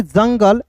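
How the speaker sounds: जंगल said "jun-gul", no "oo" sound; silent U. Shown as a demonstration. Teacher reading out jungle for students, जंगल with silent U. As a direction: say जंगल with short "uh" vowels. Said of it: "यू silent होता है".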